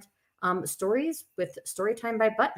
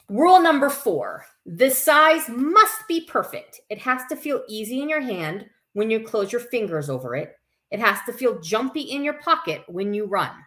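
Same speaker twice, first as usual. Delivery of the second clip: put-on lively read-aloud to children; story reading; 4 dB louder than usual. A narrator's reading. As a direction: read it to a circle of kids. Reads picture book aloud.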